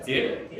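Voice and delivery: "Zip." said short with a rising pitch. Shown as a demonstration. Teacher leading the class drill, "Zip." on a rising tone. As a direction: clip "Zip." and lift it upward. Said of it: "Okay, say that".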